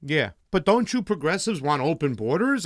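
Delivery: a light put-on New Jersey Republican heckle; mock a skeptical Jersey voter, barely changing the voice. Podcast host plays a Republican heckling the candidate, lightly voiced. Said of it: "that was me doing my Republican New Jersey voice".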